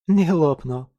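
indignant grunt through food. Acted. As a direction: snort it out, mouth full. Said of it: "хрюкнула она".

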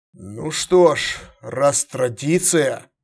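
slow, noncommittal drawl; drawn out. Acted. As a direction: stretch the words, undecided. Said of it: "протянул император".

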